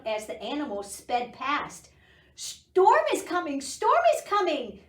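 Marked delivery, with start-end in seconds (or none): 2.3-4.8 high, loud duck alarm cry; quacking duck. Acted. Duck warning the cows in the pasture, high loud quack. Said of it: "Duck quacked".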